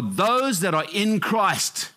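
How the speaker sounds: slow, weighted emphasis on "those that are in Christ"; emphatic. Real, not acted. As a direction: stress on "in Christ", drawn out slowly. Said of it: "I have to emphasize".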